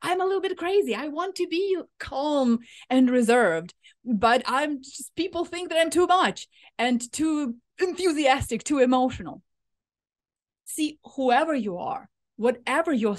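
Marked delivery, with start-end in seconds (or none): 0.0-9.4 mock overexcited rush, higher; playfully voicing her own over-the-top self; too much. The listener voicing worry about being too much, mock overexcited. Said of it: "you're thinking".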